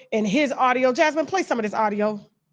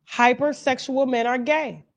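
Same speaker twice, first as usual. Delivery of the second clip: Umar Johnson impression. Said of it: "in the words of Umar Johnson".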